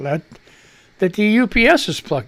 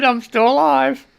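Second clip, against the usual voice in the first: slow and proud, a touch higher, announcing survival; triumphant declaration; 7 semitones higher, slower than usual. Real, not acted. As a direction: savor each word like a victory. Cheerful sign-on after rough night.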